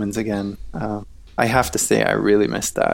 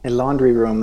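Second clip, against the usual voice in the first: echoey room sound, like a small laundry room; 2 semitones higher than usual. Real, not acted. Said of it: "That's why I sound a little bit echoey".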